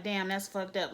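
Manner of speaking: imitating a low-key, unmoved husband; unemotional. Husband answering his upset wife, unemotional. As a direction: toss it off with no feeling. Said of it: "he doesn't have a range of showing emotions".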